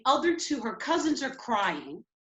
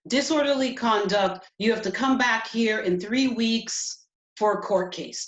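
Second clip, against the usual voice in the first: officer's loud announcement; 5 dB louder than usual. Retold or imitated. Retold officer announcing the charge.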